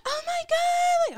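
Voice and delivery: high, slow drawn-out squeal; professional voice. Retold or imitated. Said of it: "her professional voice".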